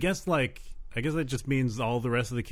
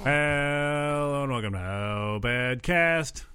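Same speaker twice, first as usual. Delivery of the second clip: slow announcer intro; 2 semitones higher, much slower than usual. Pretend. Show intro.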